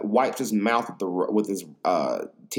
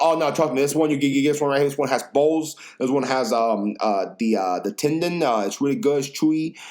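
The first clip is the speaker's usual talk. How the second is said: lightly voiced owner, rushed at first; hint of a pushy waiter selling a dish; imitating the owner; 2 semitones higher than usual. Owner pushing the tendon pho.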